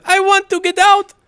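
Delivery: high, loud, slow mock scream in a Russian accent; Veniera screaming. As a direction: imitate a panicked roller-coaster rider screaming. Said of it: "She screamed".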